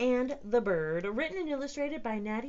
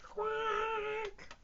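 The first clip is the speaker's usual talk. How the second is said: duck quack; 12 semitones higher than usual. Acted. Duck sound.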